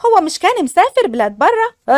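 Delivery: light up at hearing his name; happy surprise. Acted. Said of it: "ليلى بفرحة". (فرحة ومفاجأة بصوت أعلى)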